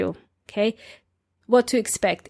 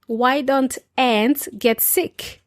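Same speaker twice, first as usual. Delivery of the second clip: telling a joke. Shown as a demonstration. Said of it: "Ants are little insects".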